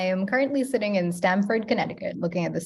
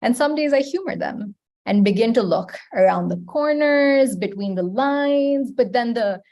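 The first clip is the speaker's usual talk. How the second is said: poem recitation. Acted. Poet reciting her poem to the open mic, measured. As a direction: let each image land, unhurried.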